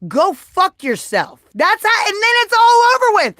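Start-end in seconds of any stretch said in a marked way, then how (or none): 0.1-1.4 dismissive. Shown as a demonstration. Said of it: "Let me tell you what I think".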